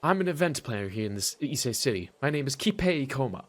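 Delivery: lightly voiced weary man; tired voice. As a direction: say it like he hasn't slept. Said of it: "so I'm gonna give him a tired voice".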